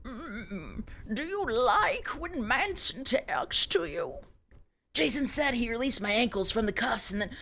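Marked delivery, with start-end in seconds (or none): 0.0-4.1 slow, put-on seductive voice; sultry tease. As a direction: coo it teasingly. Teasing chat in sultry voice.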